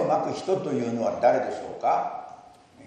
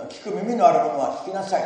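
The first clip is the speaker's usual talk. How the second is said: louder proclaiming of the verse; loud call; 6 semitones higher, 6 dB louder than usual. Acted. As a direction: call out to every listener. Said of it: "大声で".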